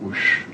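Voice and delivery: whoosh. Retold or imitated. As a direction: breathe out a hushed whoosh. Imitates the rush of elation.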